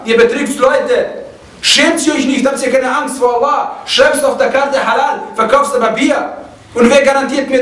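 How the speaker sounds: scolding the pizzeria man over the phone, heated but half-retold; reproachful rebuke building to outrage; retold angry scolding.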